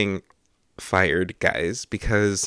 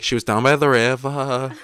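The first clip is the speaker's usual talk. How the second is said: "She was down by the river" drifting into an Irish lilt with a laugh; laughing Irish slip on "She was down by the river"; slipping into Irish; 4 semitones higher, 4 dB louder than usual. Retold or imitated. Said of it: "flooding into, like, Irish".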